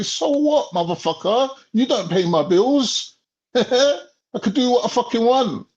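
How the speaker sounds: mock brazen so what, drawn out slowly; mocking defiant ex. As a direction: throw it back at him like a brazen cheat. Ex's defiant comeback in quarrel.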